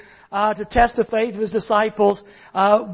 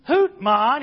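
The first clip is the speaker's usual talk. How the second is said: lightly voiced Irish brogue; a hint of an Irish accent. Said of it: "he said with a deep Irish brogue".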